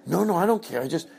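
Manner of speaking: high sugary backhanded hostess. Retold or imitated. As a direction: needle the guest sweetly. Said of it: "I go".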